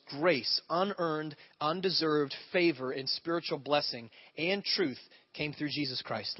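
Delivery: slow, weighty Bible reading; reverent, unhurried scripture read. Acted. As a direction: lean into each phrase of the verse. Reads scripture aloud, slowly.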